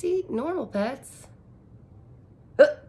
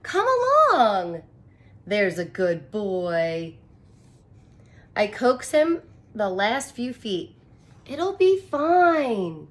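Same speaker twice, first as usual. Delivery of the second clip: coaxing; 5 dB louder, slower than usual. Acted. Narrator coaxes the elephant.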